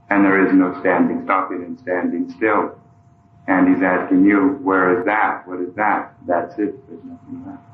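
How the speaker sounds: usual speaking voice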